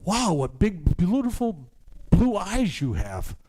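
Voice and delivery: lightly voiced awed girl, high and slowing on the end; wide-eyed girl. Young girl marvels at a lady's eyes, high and slow. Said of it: "And she looked at me and said".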